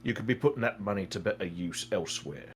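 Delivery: measured warning to a gambler; earnest advisor Arno. Acted. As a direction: counsel firmly, without shouting.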